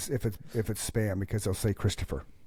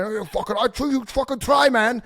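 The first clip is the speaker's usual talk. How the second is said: high, loud sputtering rage; imitated angry caller; 12 semitones higher, 6 dB louder than usual. Scammer losing it at the fake cop, high loud sputter. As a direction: splutter at him in fury. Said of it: "yelling at me".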